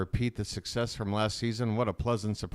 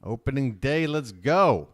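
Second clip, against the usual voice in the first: excited cheer; 3 semitones higher, 4 dB louder than usual. Real, not acted. Cheering the start of opening day.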